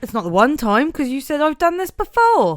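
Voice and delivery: put-on broad Norfolk accent. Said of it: "the Norfolk Siobhan".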